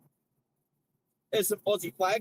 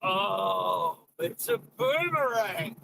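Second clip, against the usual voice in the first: excited; much slower than usual. Real, not acted. Guessing the trivia answer aloud.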